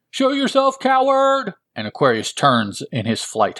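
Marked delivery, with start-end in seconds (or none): 0.1-1.5 defiant shout. Acted. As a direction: call him out, furious. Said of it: "shouts Alan Scott".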